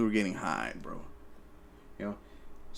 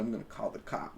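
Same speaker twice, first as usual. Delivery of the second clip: threat; 4 semitones lower, 13 dB quieter, faster than usual. Retold or imitated. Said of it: "He goes".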